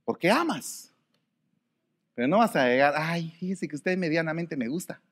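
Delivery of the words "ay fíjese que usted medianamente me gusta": soft, hesitant mock confession; coy, half-hearted "medianamente me gusta"; mock timid suitor. Mocking a shy suitor to a girl: softer, coy.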